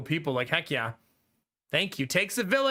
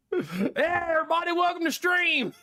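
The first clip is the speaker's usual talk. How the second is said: put-on K-Kona accent done for a gift of five subs, laughing through it; 9 semitones higher than usual. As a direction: give viewers a laughing K-Kona accent greeting. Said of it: "I wanna hear the K-Kona accent".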